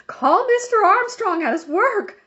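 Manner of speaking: high, loud commanding yell from the stretcher. Acted. Injured woman yelling orders at the policeman, loud and high. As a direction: bark orders at the top of her voice. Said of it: "she yelled at the policeman".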